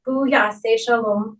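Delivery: fast, rhythmic Aramaic prayer, rattled off from memory; rapid prayer recitation. Real, not acted. Officiant leading mourners in the Kaddish, swift prayer chant. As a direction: recite the Kaddish briskly and evenly, as a well-worn liturgy.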